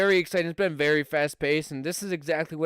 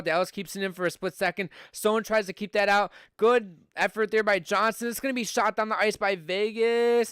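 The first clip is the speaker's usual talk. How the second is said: brisk hockey play-by-play call; live play-by-play; 3 semitones higher than usual. Acted. Streamer calling the hockey game for his viewers, live play-by-play.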